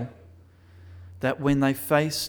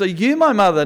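louder, eager little bird's question; baby bird asking; 5 semitones higher, 10 dB louder, faster than usual. Acted. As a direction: ask hopefully like a lost chick. Baby bird asks the cow.

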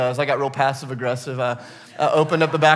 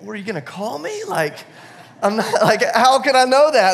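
exasperated; 6 semitones higher, 5 dB louder than usual. Retold or imitated. Retold exasperated reply to workers.

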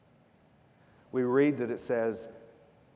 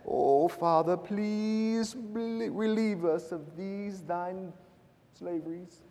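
mock British prayer, pitched high and drawn out; British accent; 6 semitones higher, 3 dB quieter, slower than usual. Preacher mocking overly polite prayer, high hammed-up British accent. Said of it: "prayed in a British accent".

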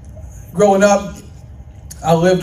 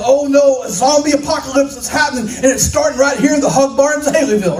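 higher, fast, hammed-up alarm; mock panic; 4 semitones higher, faster than usual. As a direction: play at panicking over a false doomsday. Acts out panicked overreaction to rustling leaves.

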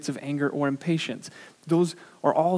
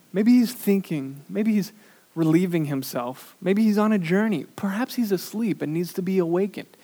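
higher, louder sarcastic jeering; mocking taunt; 5 semitones higher, 7 dB louder than usual. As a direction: taunt them like a prophet mocking a silent god. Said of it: "Elijah, uh, mocked them".

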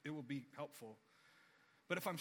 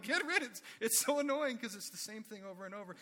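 loud, high fed-up complaint; exasperated yelling; 5 semitones higher, 6 dB louder than usual. Retold or imitated. Father fed up with the repeating CD, yelling loudly. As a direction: vent loudly at the noise. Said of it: "You know, like".

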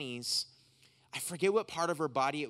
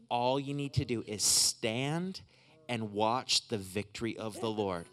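prophetic blessing; 5 semitones lower than usual. Real, not acted. Preacher telling her what the Lord is doing, measured prophetic blessing. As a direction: declare it over them phrase by phrase, with pauses.

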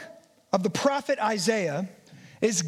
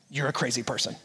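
laughing dismissal; 12 semitones lower, 3 dB quieter, faster than usual. Pretend. Imagined listener dismissing the preacher.

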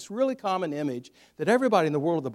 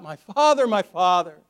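crying out; 3 semitones higher, 8 dB louder than usual. Acted. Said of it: "he cries out".

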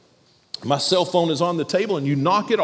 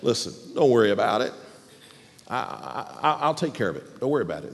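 reassuring; 8 semitones lower, 5 dB quieter, faster than usual. Retold or imitated. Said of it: "I should then say".

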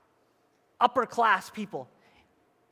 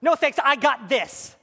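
dismissive no thanks; 4 semitones higher, 5 dB louder, slower than usual. Retold or imitated. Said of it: "you say".

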